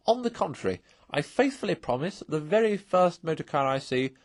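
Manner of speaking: high, loud gleeful rush; gleeful vow. A narrator's reading. Toad gleefully tells the Badger he'll drive again, high and loud. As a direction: crow with delight at the thought of motoring.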